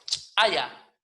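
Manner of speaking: "chaya" with a well-struck ejective CH; explosive CH. Shown as a demonstration. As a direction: punch the CH of "chaya" loudly. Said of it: "bien golpeado".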